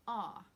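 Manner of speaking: "Ah" for are, with no R; dropped R. Shown as a demonstration. Teacher isolates the word are, dropped R. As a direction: open New York vowel on "Ah". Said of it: "You don't even say r".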